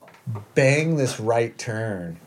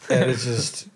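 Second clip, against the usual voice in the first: ordinary talk, nothing marked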